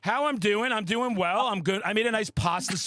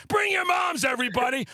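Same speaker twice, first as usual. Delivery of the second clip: calling out; 5 semitones higher than usual. Pretend. Calling out to the crowd.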